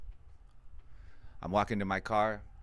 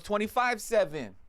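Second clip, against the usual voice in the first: put-on old lady voice; 12 semitones higher than usual. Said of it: "old decrepit lady".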